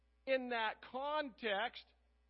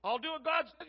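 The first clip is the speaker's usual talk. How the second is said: louder and higher, calling it out with conviction; firm declaration; 7 semitones higher, 6 dB louder than usual. Retold or imitated. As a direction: proclaim it boldly, no argument. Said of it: "Didn't argue".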